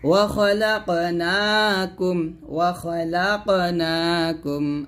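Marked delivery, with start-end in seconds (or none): 2.4-4.8 very slow melodic chant; recitation for repeating. Shown as a demonstration. Teacher chants the verse for students to repeat. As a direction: chant slowly so the class can repeat after you. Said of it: "আবার বলেন".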